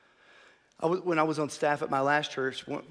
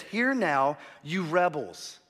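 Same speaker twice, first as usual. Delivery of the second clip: firm, raised retelling of a rebuke; harsh rebuke; 3 semitones higher, 4 dB louder, slower than usual. Retold or imitated. Preacher quoting Moses to the congregation, harsh rebuke. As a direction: call them out, higher and louder. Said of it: "it's so harsh".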